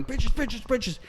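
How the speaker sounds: high whispery repeating; feed the word up high and softly; echoing prompt. Retold or imitated. The earpiece crew feeds the mayor the answer, high and soft. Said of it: "Richard Kind and Alan Ruck going".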